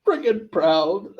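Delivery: proud Southern mom, lightly hammed up. Mom tells child evil deeds mirror hers, lightly Southern proud mom. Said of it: "like, a Southern mom's voice".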